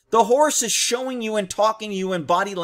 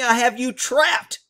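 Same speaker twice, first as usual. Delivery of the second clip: ordinary talk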